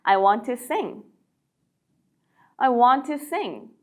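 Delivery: slow, falling "I want to sing."; slow model sentence. Shown as a demonstration. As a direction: read slowly for learners. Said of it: "노래하고 싶어요". (천천히 또박또박)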